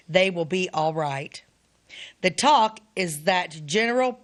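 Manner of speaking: deliberate reading, with pauses between sentences; letter reading. Acted. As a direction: read an old letter aloud phrase by phrase. Reads soldier's letter aloud.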